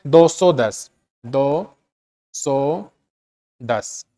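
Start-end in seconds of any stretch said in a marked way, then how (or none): 1.2-4.0 दो सौ दस read as the number two hundred ten, softer and falling; wrong reading as number. Shown as a demonstration. Teacher shows students how not to read it, as दो सौ दस. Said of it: "ये आपको नहीं बोलना है".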